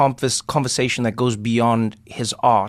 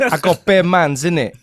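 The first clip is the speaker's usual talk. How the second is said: higher, London roadman twang; mock London slang; 5 semitones higher, 4 dB louder than usual. Bragging to his co-host in mock London slang. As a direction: brag like a South London lad.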